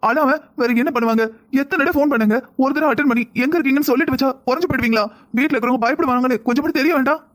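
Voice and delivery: upset scolding with a touch of tears; understated crying complaint from a worried wife; tearful reproach. Acted. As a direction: reproach him, mildly tearful. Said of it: "எதுக்கு அழுகுற நீ?".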